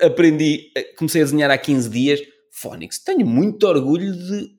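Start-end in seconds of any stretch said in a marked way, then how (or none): none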